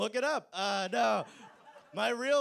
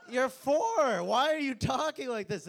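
laughing exasperation; 5 semitones higher, 7 dB louder than usual. Retold or imitated. Scolding the imagined grandchild.

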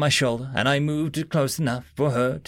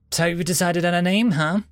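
cheerful; 6 semitones higher than usual. A narrator's reading. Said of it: "she said cheerfully".

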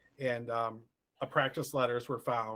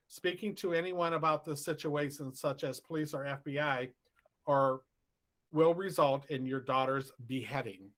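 reading the note, slightly raised pitch; shaky ransom note reading; 3 semitones higher than usual. Retold or imitated. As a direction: read it out like a threatening letter. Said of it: "the ransom note said".

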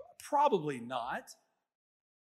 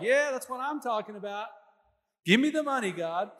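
mock greedy excitement; 4 semitones higher, 3 dB louder than usual. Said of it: "we're like".

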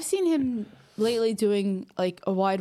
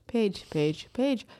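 mocking repeated Paige; much slower than usual. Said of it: "clips of you talking about Paige".

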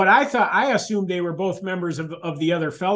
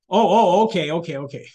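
hasty giving in; 5 dB louder than usual. Retold or imitated. Husband obeying wife's coffee order, hasty giving in. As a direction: back down at once, trailing off meekly.

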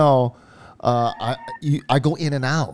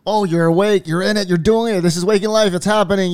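excited; 5 semitones higher than usual. Retold or imitated. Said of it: "I remember telling myself".

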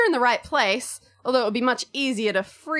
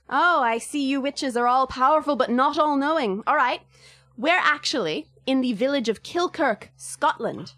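put-on Irish accent. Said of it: "put myself through more accent trouble".

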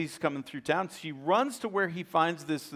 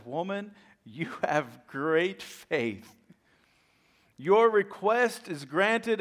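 smiling Jesus; much slower than usual. Retold or imitated. A smile comes across Jesus' face.

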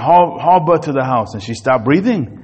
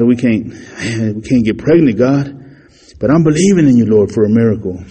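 acted prayer. Man praying to God for a baby, lightly pleading. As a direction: pray humbly, asking God for a child.

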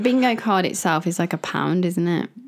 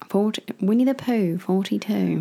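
bingo caller; 2 semitones higher than usual. Shown as a demonstration. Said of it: "That sounded like a proper bingo caller then".

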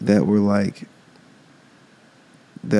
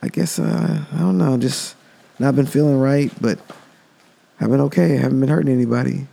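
lightly higher, meek mumbling snake; beaten snake; 4 semitones higher than usual. Retold or imitated. Beaten snake answers the monk meekly, voice raised. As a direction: hand over a meek, raised, broken little voice. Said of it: "He's like".

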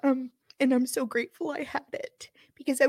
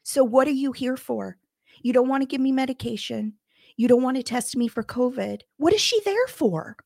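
retold anger; 6 dB louder than usual. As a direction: let the frustration boil over. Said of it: "Because then I got mad".

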